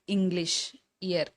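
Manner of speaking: "இங்கிலீஷ்", "இயர்" starting on an "i" vowel; ஈ sound demo. Shown as a demonstration. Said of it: "ஈ அப்படின்ற உச்சரிப்பு". ("இங்கிலீஷ்", "இயர்" ஈ ஒலியில் தொடங்கி உச்சரி)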